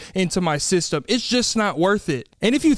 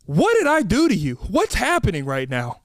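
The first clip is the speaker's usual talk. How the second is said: exasperated. Acted. Exasperated at barista.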